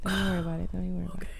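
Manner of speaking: soft reassuring whisper. Real, not acted. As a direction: hush them gently.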